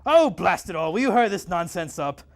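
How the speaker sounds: loud, impatient outburst; impatient shout. Acted. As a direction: bark it out, fed up. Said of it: "Otto shouted".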